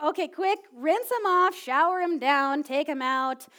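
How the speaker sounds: loud, rushed orders to herself; frantic hurry. Retold or imitated. Mom rushing to rinse the kids after the bathtub accident in a frantic hurry. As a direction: hustle through it in a panic. Panicked self-talk in the bathroom.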